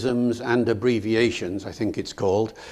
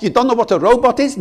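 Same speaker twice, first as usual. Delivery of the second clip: high, loud, fast disbelief; can't believe he doesn't know; incredulous driver; 10 semitones higher, 5 dB louder, faster than usual. Retold or imitated. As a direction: driver amazed at the visitor's ignorance.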